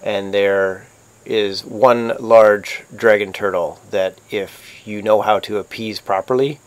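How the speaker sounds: slow, lightly voiced ominous counsel; first mate's grave warning. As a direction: let the warning out slowly, softening toward the end.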